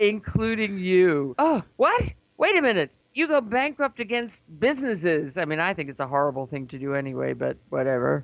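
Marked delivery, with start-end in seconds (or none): 0.0-1.4 slow, raised Southern voice; Southern accent. Retold or imitated. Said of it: "It's got a Southern accent". 1.4-5.4 high-pitched, incredulous objection; acted shocked protest. Acts out shock at the bankruptcy.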